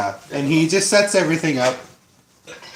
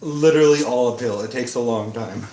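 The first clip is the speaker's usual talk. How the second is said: hillbilly voice; 4 semitones lower than usual. Acted. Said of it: "You like my hillbilly voice?".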